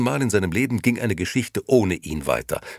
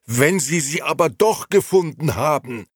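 higher, louder desperate cry; shouting; 10 semitones higher, 5 dB louder than usual. Acted. Old Beppo shouting at Gigi about Momo, louder. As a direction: yell it at him in panic. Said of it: "schrie Beppo".

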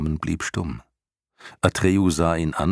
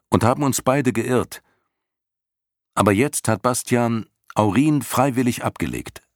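put-on higher, urgent young hero pleading; Atreju's earnest boy voice; 8 semitones higher, 4 dB louder than usual. A narrator's reading. Atreju vouches for Bastian before the snakes, pleading higher boy voice. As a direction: speak up for your friend, higher and eager.

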